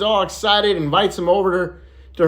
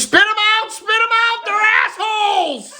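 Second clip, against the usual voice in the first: put-on a kid yelling in alarm at the class, much higher; screaming kid. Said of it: "Little Johnny screams".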